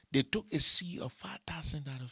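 loud, high forceful cry; shouted emphasis. Real, not acted. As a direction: hammer it at the congregation. Preacher stressing the seed demand.

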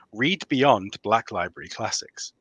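slow bedtime story reading. Shown as a demonstration. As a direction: read it like a soothing bedtime story. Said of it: "my bedtime story voice".

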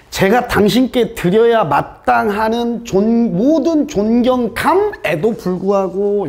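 mock formal deference. Shown as a demonstration. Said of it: "요걸 조금 직역하면".

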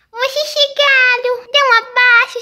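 high, slow delighted welcome; light up as they walk in; excited welcome. Real, not acted. Chegada das irmãs. (boas-vindas animadas e lentas)

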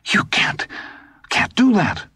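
disbelief breaking high; stammer, then climb in pitch; rising disbelief. A narrator's reading. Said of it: "his voice suddenly rose".

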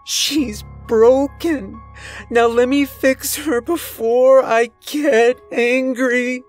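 drawn-out, high, loud madman's warning; booming threat. A narrator's reading. Captor aims his revolver at the narrator, booming threat. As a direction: threaten them at full voice. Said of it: "he boomed".

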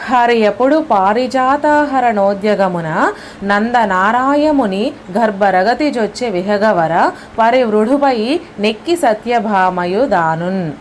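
measured, slow recitation of a Telugu verse; slow poem recital. Acted. Teacher reading a poem to students, slow and measured. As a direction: chant the verse slowly for the class.

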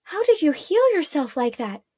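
wonder-struck asking; awed. A narrator's reading. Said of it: "Marella asked in awe".

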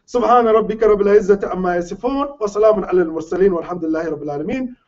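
fast recited Arabic dua, rattled off from memory; rapid closing prayer. Acted. Imam closing his talk to the congregation, rapid recitation. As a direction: run the closing prayer off quickly in one breath.

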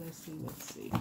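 nearly inaudible, trailing off; fading murmur. Real, not acted. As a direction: let it die away under your breath. Murmuring to herself while reading.

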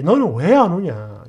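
loud acted reproach; ranting father-in-law. Father-in-law comparing her to a pregnant relative, loud reproach. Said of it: "이러면서 난리를 찍이는 거야".

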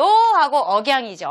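ordinary talk, nothing marked

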